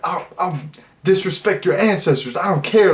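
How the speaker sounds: high, strained put-on voice, daring and reckless; wild character voice. Movie reviewer impersonating a crazy frat character. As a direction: snap it out like an unhinged frat guy.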